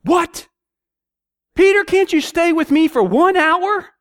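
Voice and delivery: high, loud, incredulous yell at Peter; exasperated shout. Shown as a demonstration. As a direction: shout it at him in disbelief. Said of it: "Do you think he said it like that?".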